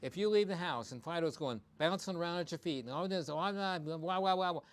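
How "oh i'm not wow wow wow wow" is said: mock excited owner. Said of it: "you say".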